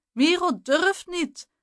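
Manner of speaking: high, singsong taunt; mocking echo. A narrator's reading. Jeroen echoing Jasper's jeer at Miro, high and mocking. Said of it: "echode Jeroen".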